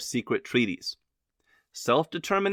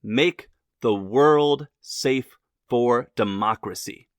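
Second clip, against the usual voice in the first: each word laid out slowly and grandly; slow grand quote; 3 semitones lower, 4 dB louder, slower than usual. Retold or imitated. Quoting Wilson's war aim to viewers, slow and grand. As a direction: read the famous words slowly, with weight.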